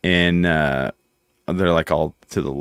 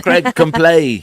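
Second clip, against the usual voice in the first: slow, raised, louder mock call; imitated singer's call; 9 semitones higher, 5 dB louder, much slower than usual. Retelling a rock singer's invitation to play, slow mock call. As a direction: drag it out as an imitated summons.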